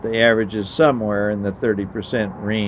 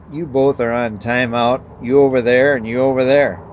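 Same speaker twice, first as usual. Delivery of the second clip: raised, firm mother's voice, louder at the end; stern scolding; 3 semitones higher, 6 dB louder than usual. Acted. Mother ordering both kids to timeout, firm and loud. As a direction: lay down the law to the squabbling kids.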